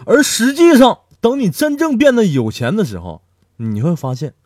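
high, loud, laughing burst; cackling, swearing payoff; excited punchline. Acted. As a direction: shout the punchline gleefully.

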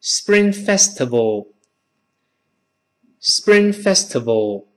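SPRING FESTIVAL slow, "sbring" without a puff; model Spring Festival. Shown as a demonstration. Teacher has class read it once, slow SPRING FESTIVAL. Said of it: "读一遍春节".

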